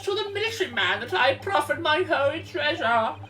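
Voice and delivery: put-on old man voice. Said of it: "that old man voice".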